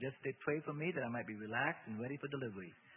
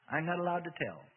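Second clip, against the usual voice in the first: raised, mildly whimpering protest; frightened; 5 semitones higher, 5 dB louder than usual. A narrator's reading. Demon refuses to tell Bob, frightened. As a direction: plead with a touch of fear. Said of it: "clearly frightened and started to whimper".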